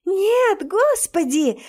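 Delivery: shrieking no, then God; wailing in horror. Acted. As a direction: howl it out of shock. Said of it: "я вою не своим голосом".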